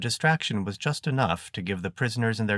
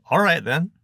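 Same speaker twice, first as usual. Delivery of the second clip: high character voice; 9 semitones higher, 7 dB louder than usual. A narrator's reading. Bertz voiced in read story.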